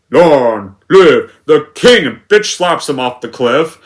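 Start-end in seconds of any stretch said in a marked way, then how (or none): 0.1-2.0 loud, drawn-out mock villain line; mocking imitation. Critic mimicking the remake's Scar, loud and slow. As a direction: blurt each word out slowly, no whisper. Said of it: "and he just says".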